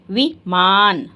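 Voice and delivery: slow, drawn-out विमान again; a slightly shorter slow take; slow repeat. Shown as a demonstration. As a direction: repeat it slowly.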